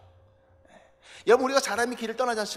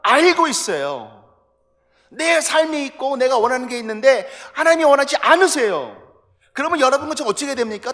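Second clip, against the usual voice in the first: loud, driving sermon climax; thundering pulpit voice; preaching at full force; 5 semitones higher, 14 dB louder than usual. Acted. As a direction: preach it out to the back pews, much louder.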